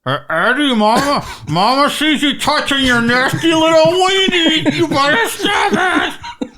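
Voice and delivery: ghostly mother scolding her son; a haunting mother's voice from beyond. Pretend. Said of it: "What a haunting voice to hear".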